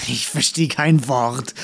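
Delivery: dandelion mocking a hard-of-hearing old man; mocking call. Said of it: "rief ein Löwenzahn". (spöttisch wie ein schwerhöriger Alter)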